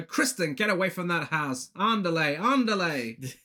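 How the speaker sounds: lightly hammed-up catchphrase delivery; mother's catchphrase. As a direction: play the mother shooing her daughter away. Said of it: "her iconic catchphrase".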